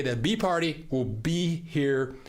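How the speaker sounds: hoarse, voice giving out. Real, not acted. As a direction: talk with a worn-out, hoarse voice. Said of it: "I'm losing my voice".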